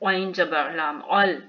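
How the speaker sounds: अल opened with an ain squeezed from mid-throat. Shown as a demonstration. Teacher spelling for learners, अल with a throaty ain. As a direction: start अल from the middle of the throat. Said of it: "वस्ते हलक से".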